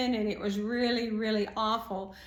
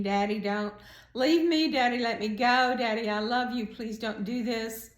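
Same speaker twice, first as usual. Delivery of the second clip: retold screaming. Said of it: "I'm screaming".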